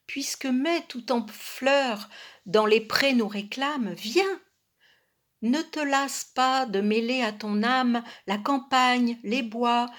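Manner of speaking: flowing, lilting verse reading; poem recitation. Acted. Poet inviting a companion to the countryside, poem recitation.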